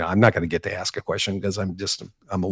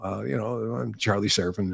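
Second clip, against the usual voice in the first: softer, hesitant self-introduction; sheepish; 6 dB quieter than usual. Retold or imitated. Reporter answering the labor boss, soft and sheepish. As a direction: shrink a little as you say your name.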